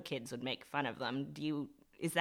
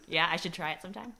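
laughing; 5 semitones higher, 4 dB louder, faster than usual. Real, not acted. Joking about trying masculinity.

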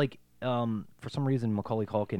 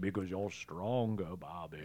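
slow, much softer, dropping to near silence; hushed mock tender; 3 semitones lower, 9 dB quieter, slower than usual. Retelling the buffalo line, soft and slow. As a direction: murmur it gently and slowly. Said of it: "And he's like".

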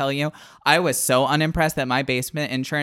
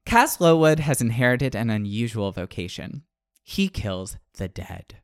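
lower, measured book-blurb narration; blurb reading; 3 semitones lower than usual. Acted. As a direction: read it like a dramatic back-cover blurb. Reads book blurb aloud.

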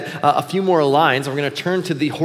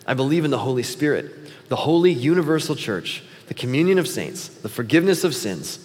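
measured recitation, falling at phrase ends; creed recitation. Acted. Pastor reads the Apostles' Creed to church, measured recitation. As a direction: recite it phrase by phrase, sinking at the close.

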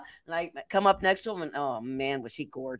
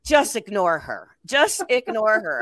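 mock friends' warning; slower than usual. Friends behind her, retold.

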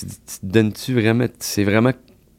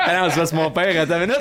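high laughing talk, cracking up; 7 semitones higher, faster than usual. Real, not acted. Friends cracking up over swearing on the podcast, laughing. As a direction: laugh the words out, high and giddy.

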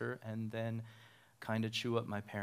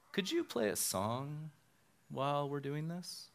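higher-pitched, imitated request; hint of a bride asking a favour; lightly voiced bride; 5 semitones higher than usual. Bride asking pastor to play a song, lightly imitated.

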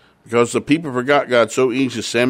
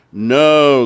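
crowd shout; 3 semitones higher, 7 dB louder than usual. Acted. Crowd answering Samuel again.

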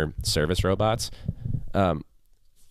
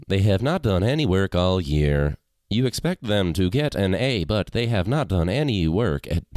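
robot voice; 3 dB louder than usual. Pretend. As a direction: talk like a text to speech machine. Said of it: "cue the robot".

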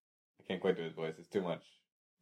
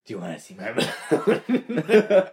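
creepy clown; 3 semitones lower than usual. Retold or imitated. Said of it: "I was trying to do It".

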